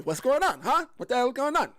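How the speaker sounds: high-pitched put-on New Jersey accent; hammed-up New Jersey questioning. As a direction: do a playful New Jersey challenge. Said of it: "my New Jersey voice".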